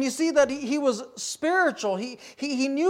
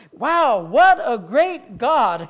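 louder, slow wonder; awed exclamation; 5 dB louder, much slower than usual. Acted. Preacher voicing wonder at the bounty in the land, awed. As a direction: draw out the praise with weight. Voices awe at the land's bounty.

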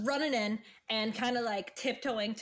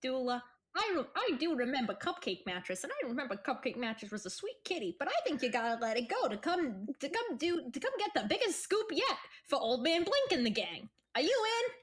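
Jeb coaxing gently. Acted. Plays Jeb coaxing Dula.

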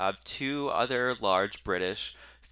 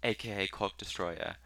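put-on British accent. British woman emailing about hosting, British accent. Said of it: "woman from the U K".

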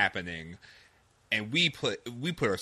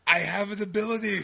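lightly Gottfried, higher; a hint of Gottfried squawk; 6 semitones higher than usual. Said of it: "I could do Gilbert Gottfried".

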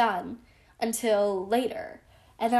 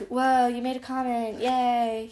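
sarcastic. Retold or imitated. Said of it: "He was a sarcastic little butthead".

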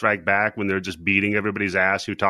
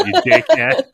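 mock snarl; 13 semitones higher, 6 dB louder than usual. Turkey insults the heroes.

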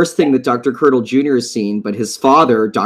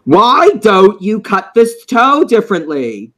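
slow nagging New York Jewish ghost, higher; New York Jewish accent; 7 semitones higher, 3 dB louder, slower than usual. Retold or imitated. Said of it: "thick New York Jewish accent".

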